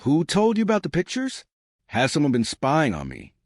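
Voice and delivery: high, jittery accusing voice; suddenly suspicious and on edge; paranoid. Acted. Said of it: "brittle and paranoid".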